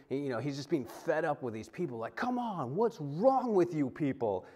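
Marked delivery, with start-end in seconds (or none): 2.2-4.5 imitated anger. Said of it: "we often see anger in his voice".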